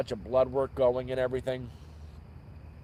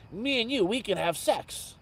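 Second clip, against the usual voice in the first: a light put-on Indian accent, pitched up; imitating broken Indian accent; 8 semitones higher than usual. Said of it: "Very broken Indian accent".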